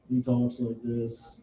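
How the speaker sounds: slow, deadpan monotone. Retold or imitated. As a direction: drone it out slowly, no tune. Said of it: "the guy that has the monotone voice".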